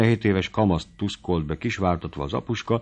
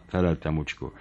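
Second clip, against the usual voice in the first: ordinary delivery, nothing marked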